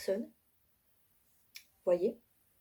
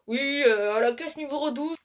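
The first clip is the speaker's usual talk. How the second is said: store announcement; 4 semitones higher, 3 dB louder than usual. Retold or imitated. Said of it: "les gens qui parlent dans le haut-parleur".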